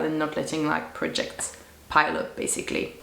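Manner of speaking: deep, rough croaky voice; low hoarse voice; deep witch voice. Real, not acted.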